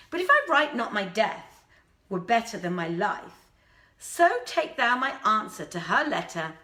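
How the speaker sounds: a hint of a lovesick prince despairing; grieving prince. Prince tells the old woman of his lady's threats, mildly anguished.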